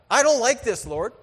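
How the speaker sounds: loud, high frustrated complaint to God; angry prayer. Retold or imitated. Preacher voicing his angry prayer to God, loud and frustrated. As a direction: tell God straight out you're upset. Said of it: "I've been angry at God".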